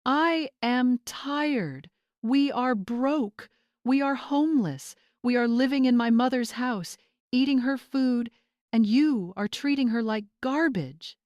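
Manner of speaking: desperate confession about to crack. A narrator's reading. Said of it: "his voice cracking".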